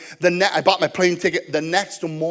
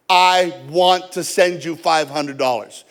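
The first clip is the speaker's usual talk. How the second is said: firm insistence; 2 semitones lower, slower than usual. Retold or imitated. Seller insists on paying, retold.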